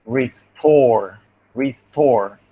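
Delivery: "restore" with a puff of air on the T; aspirated T. Shown as a demonstration. Teacher shows the T must be aspirated, aspirated T. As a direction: punch TORE in "restore", releasing the T with breath. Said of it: "the T must be aspirated".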